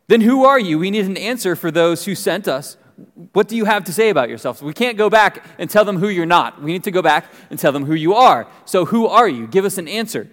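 lively, pressing demand for an answer; insistent questioning. Acted. Priests questioning John for those who sent them, insistent. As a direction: act out impatient questioners pressing him.

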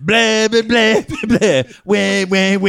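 high, mocking blah-blah gibberish; muffled wah wah talk. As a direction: babble it like a muffled adult. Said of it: "don't editorialize as much".

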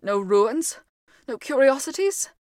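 loud incredulous echo; indignant. Acted. Ghost retorts indignantly.

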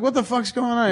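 high, incredulous mock outburst; retold exasperation. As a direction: demand an explanation, played for laughs. Retold scolding of sleeping actor.

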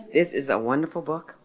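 ordinary delivery

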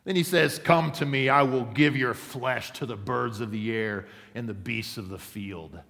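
loud mocking giant's challenge; yelled taunt. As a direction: bellow it across the valley. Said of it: "he yelled".

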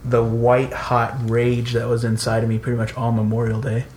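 amused, laughing while talking. Real, not acted. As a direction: chuckle through the rant. Laughing about own anger.

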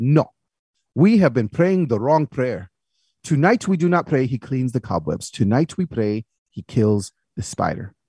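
put-on slow, deliberate accented pronouncement; preacher father.

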